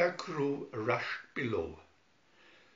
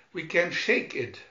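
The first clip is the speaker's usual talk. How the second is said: worried; 3 semitones higher, 5 dB louder than usual. Acted. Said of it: "worried Don".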